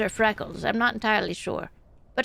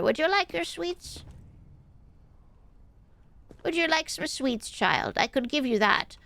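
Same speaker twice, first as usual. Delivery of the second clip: a hint of a sweet old grandma offering candy; just a touch of granny, coaxing a child with sweets; lightly voiced granny. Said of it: "we're doing the granny voice first".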